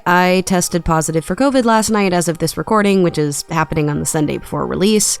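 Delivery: rough, gravelly sick voice; hoarse from being sick. Real, not acted. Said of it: "I sound like I'm gargling rocks".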